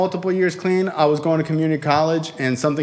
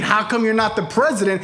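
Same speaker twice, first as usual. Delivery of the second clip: raised, insistent misquote of a father; mock quoting; 3 semitones higher than usual. Friend corrects what the son heard, mock quoting. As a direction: throw the question back in a higher voice. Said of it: "He's not saying".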